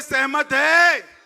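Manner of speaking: slow loud सहमत है, stretched out; drawn-out question. Real, not acted. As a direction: drag out सहमत है to get the crowd answering. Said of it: "जोर से बोलिए".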